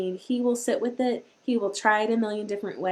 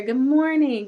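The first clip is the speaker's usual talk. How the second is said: high, loud cheerful hello; cheery greeting; 5 semitones higher, 6 dB louder than usual. Real, not acted. Host welcoming Doug to the live chat, loud cheery hello. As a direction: greet him with a big welcome.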